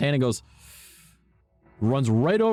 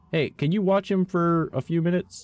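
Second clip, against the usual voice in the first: mom asking favor; 8 semitones higher than usual. Retold or imitated. Voicing mom asking dad.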